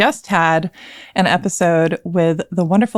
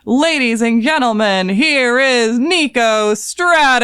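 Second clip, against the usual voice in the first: higher, louder, slow booming announcer; monster truck announcer; 6 semitones higher, 3 dB louder, slower than usual. Acted. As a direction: hype her up like a monster truck rally. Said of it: "in a monster truck voice".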